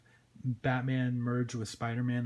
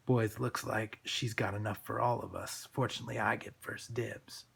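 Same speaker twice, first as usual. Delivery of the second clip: low, quiet thug voice; lowered street-thug voice; menacing thug; 3 semitones lower, 4 dB quieter than usual. Acted. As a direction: leer it low to your gang.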